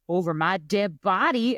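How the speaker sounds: lightly imitated Boston accent; slow mock-Boston declaration. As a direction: drag it out like a Bostonian. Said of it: "everybody from Boston's like".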